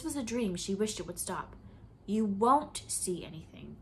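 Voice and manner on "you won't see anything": crisp educated snap. Acted. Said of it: "a crisp, educated voice snapped".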